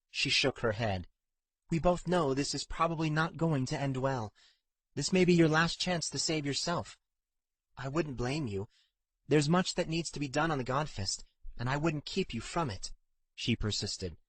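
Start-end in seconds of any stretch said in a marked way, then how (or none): 1.7-12.9 lightly voiced heroine, higher pitch; earnest pleading with a touch of higher pitch; persistent, concerned Katrin. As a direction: urge a friend to save himself, voice lifted.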